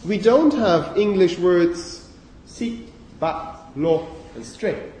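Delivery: si, ba, lo said as short open syllables; clipped nonsense syllables. Shown as a demonstration. Teacher showing words English lacks. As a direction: sound out si, ba, lo as fake words. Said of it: "sound almost Chinese to me".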